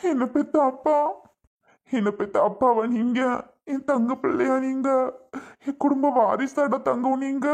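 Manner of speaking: put-on moved to tears, cooing to the baby; choked-up grandfatherly endearments; tearful. Grandfather seeing his grandson at last, tearful. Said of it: "தாத்தாவுக்கு அழுக வந்துட்டுடா".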